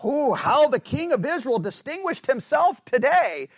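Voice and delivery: scornful mock compliment; sarcastic. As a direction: sneer it as fake praise. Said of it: "it's sarcastic".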